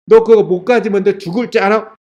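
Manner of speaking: lightly acted threatening warning; a touch of scolding menace, put on; mock threat. Preacher mimicking a threat Jesus did not make, mock-threatening.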